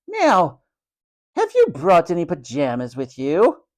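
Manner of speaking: high haughty "Now", then an imperious question; stern matron. A narrator's reading. Matron asking new boy about pajamas, brisk and imperious. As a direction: question him like a strict matron.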